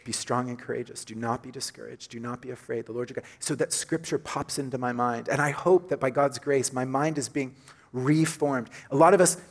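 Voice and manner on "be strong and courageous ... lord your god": soft, low murmur under the breath; a gentle private reassurance; quietly to oneself. Shown as a demonstration. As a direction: say it softly, as if reminding yourself. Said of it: "I just go".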